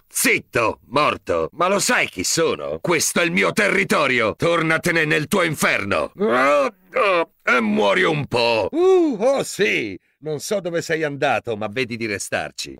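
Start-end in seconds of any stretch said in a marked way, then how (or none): 2.8-6.1 furious, full-voiced yell; angry shout. Cop yelling at a monster on his turf, angry shout. 6.2-10.0 high, gloating battle yells; fierce fight cries. Acted. Cop gloating as he finishes off a monster, excited yells.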